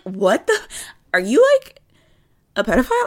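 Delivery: shocked disbelief. Retold or imitated. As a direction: squeal it in disbelief. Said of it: "I would be like".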